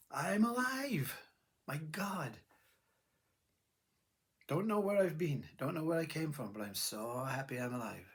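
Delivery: put-on joyful baby. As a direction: marvel like a newborn who has just woken up. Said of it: "Baby is in joy".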